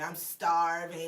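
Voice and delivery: drawn-out, slow mock whine of a hungry kid; exaggerated kid whine. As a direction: stretch out starving like a dramatic child. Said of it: "you know how kids exaggerate".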